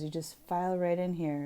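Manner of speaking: playful sneaky whisper. Pretend. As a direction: hush it like a ninja. Teasing viewers sneaking in.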